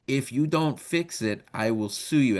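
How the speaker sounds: slow, lightly hammed Italian accent; frustrated threat with a hint of Italian; mock Italian accent. God threatening the devil in a joke, mock Italian accent. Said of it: "why God is Italian in this joke".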